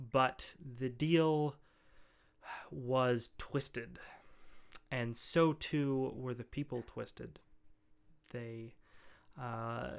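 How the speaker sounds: lightly voiced solemn ogre, measured with long pauses; understated, halting, formal ogre storyteller; grave ogre scholar. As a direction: tell of a curse gravely, as a learned ogre. Game master voices ogre explaining curse.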